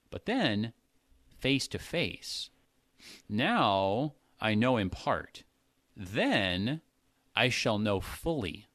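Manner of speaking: measured Bible reading; emphatic scripture reading. Shown as a demonstration. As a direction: read the passage with weight on each emphasis. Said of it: "I was trying to emphasize the words".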